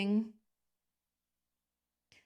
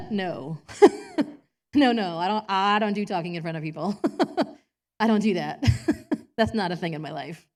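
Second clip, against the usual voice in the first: laughing refusal; 6 dB louder than usual. Retold or imitated. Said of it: "I'd be like".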